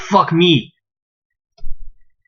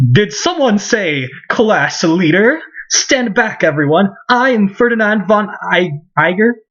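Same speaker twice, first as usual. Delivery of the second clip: pompous nobleman; 10 semitones higher than usual. Acted. Ferdinand introduces himself to everyone, pompous theatrical voice. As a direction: announce yourself grandly, pitched up.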